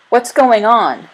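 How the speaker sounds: loud, slow puzzled call. A narrator's reading. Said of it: "someone called from a bunk".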